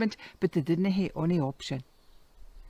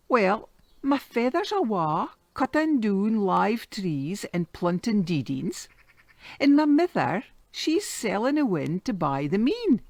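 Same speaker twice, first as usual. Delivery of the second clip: put-on boy's voice; 4 semitones higher than usual. Boy repeats riddle louder.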